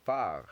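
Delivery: "Phare" ending cleanly on the R; one-syllable "Phare"; correct French pronunciation. Shown as a demonstration. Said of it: "You end the pronunciation".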